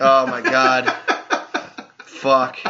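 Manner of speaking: tinny laptop mic audio; thin, tinny recording; low sample rate. Real, not acted. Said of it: "I didn't have the audio thing plugged".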